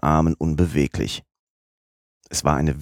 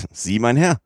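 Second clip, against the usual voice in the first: higher-pitched startled cry, rising at the end; mild narrated outcry, pitched up; exclaimed cry; 7 semitones higher, 3 dB louder than usual. A narrator's reading. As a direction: cry out with rising disbelief, without full shouting. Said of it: "schrie Fix".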